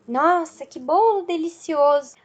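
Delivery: mildly delighted exclamation; joyful exclamation. Shown as a demonstration. Teacher modelling speech with emotion, mildly joyful exclamation. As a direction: exclaim it with a touch of joy. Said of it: "falando algo com alegria, com emoção".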